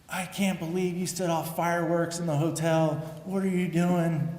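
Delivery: angry coach yelling. Retold or imitated. Coach scolding his sleepy catcher, a mild retold yell. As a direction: replay the coach going off on you. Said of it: "Going off on me".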